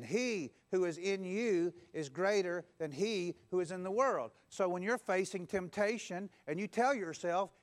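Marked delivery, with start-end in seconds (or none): 0.0-4.3 slow repetition. Shown as a demonstration.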